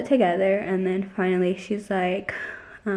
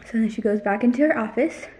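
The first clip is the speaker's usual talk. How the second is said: talking while short of breath; breathless, gasping between words; faster than usual. Real, not acted. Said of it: "I'm out of breath".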